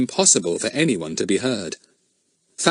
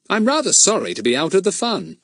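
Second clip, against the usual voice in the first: regretful; 10 semitones higher than usual. A narrator's reading. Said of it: "said Fatty regretfully".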